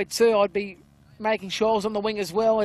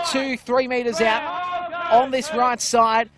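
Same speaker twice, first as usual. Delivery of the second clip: rising, louder call as they score; excited try call; 2 semitones higher, 4 dB louder than usual. Real, not acted. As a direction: lift the call as they charge the line. Try scored near the line.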